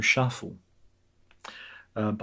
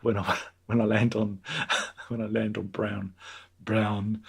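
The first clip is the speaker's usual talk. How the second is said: laughing at Waynetta; 2 semitones lower than usual. Retold or imitated. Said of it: "I do the Waynetta voice".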